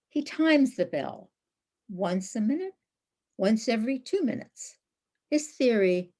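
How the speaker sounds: measured poem recital with long pauses between phrases; poetry reading. Acted. Poet reads her Cordoba poem to an online audience, measured recital. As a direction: read each line apart, letting key words lift.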